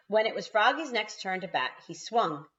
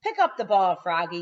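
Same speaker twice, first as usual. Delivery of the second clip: louder urgent yell; yelling coach; 8 dB louder than usual. A narrator's reading. Coach yelling at Froggy to pick up the ball. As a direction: hurry him from the bench. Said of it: "yelled the coach".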